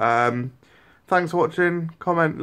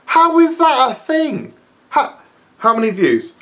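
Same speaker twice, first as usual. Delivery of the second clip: angry rant; 9 semitones higher, 5 dB louder than usual. Real, not acted. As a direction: spell out your outrage. Ranting at the videos.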